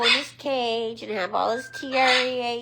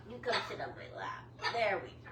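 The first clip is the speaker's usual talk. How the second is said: soft, coaxing murmur; hushed comfort to a pet; tender soothing; 12 dB quieter, faster than usual. Real, not acted. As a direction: gently settle a frightened pet. Settling the pet on lap.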